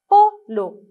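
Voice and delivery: "polo" high and loud, as PO, pause, LO; syllable by syllable. Shown as a demonstration. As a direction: split "polo" into two beats. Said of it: "avec moi encore".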